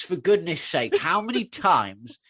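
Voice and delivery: drawn-out, rising mock telling-off; exasperated scolding. Telling off Strax for declaring war, exasperated. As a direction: scold slowly, pitch climbing in exasperation.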